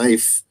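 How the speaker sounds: if said as "eye-f", rhyming with knife; wrong long-I if. Shown as a demonstration. Mocking the long-I rule to a friend, long-I "if". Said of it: "It's not if".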